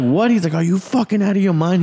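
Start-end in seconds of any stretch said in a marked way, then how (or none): 0.0-0.3 confused what. Retold or imitated. Teller confused by warning. 0.5-1.8 alarmed disbelief. Retold or imitated. Coworker alarmed.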